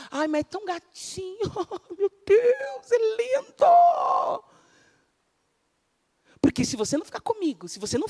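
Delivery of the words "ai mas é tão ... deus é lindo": high gushing swoon; swooning girl. Acted. Preacher mimicking a smitten young girl, high and gushing. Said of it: "pra jovenzinha".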